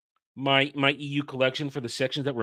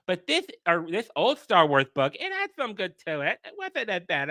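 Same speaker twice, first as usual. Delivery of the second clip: mock fake fan; 2 semitones higher than usual. Streamer mimics fake fans of old books, mocking. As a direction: mimic a phony fan feigning fondness. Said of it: "trigger the fake fan thing and go".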